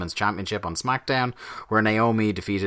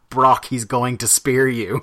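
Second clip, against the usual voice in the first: shrill gloating wrestling manager; 4 semitones higher, 5 dB louder, slower than usual. Retold or imitated. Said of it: "had roared at him".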